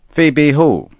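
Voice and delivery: high, loud, puzzled question. A narrator's reading. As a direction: ask it baffled. Puzzled neighbor.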